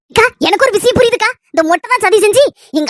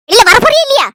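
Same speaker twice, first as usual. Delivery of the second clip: higher and louder order; angry demand; 4 semitones higher, 4 dB louder than usual. Acted. Daughter orders her mother out from under the cot, loudly. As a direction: order her out right now.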